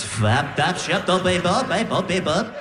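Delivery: rhythmic mumbled gibberish chant; hammed-up speaking in tongues. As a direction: babble it like a possessed sleeper.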